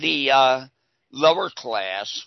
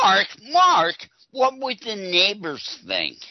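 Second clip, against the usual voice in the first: mock scandalized worrier; 7 semitones higher than usual. Co-host plays worrier scolding Mark, mock scandalized. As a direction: plead high in pretend horror. Mocks a fretting conformist.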